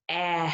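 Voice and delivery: EH as a drawn-out short vowel; short E sound. Shown as a demonstration. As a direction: hold EH to show the short E. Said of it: "the short E sound".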